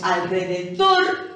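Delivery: "alrededor" with the weight on dor; teacher stressing the end of "alrededor"; stress on last syllable. Shown as a demonstration. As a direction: push the final dor of "alrededor". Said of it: "cargo en la última".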